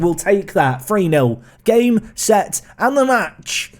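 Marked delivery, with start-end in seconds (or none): 1.6-3.7 booming darts announcer call. Pretend. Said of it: "talking like I'm a darts announcer".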